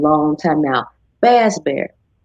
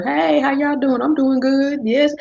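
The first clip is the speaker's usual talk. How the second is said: higher, upbeat hello to viewers; cheery stream greeting; 7 semitones higher than usual. Retold or imitated. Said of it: "I don't plan to say anything, but".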